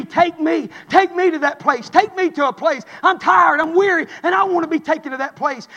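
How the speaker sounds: steady, insistent preaching cadence; building sermon delivery, phrase on phrase; driving preaching. Acted. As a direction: press each phrase home like a revival preacher.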